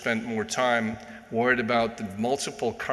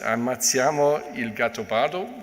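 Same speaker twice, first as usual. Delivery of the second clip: Italian; 2 semitones higher than usual. Real, not acted. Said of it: "sorry for the, uh, Italian".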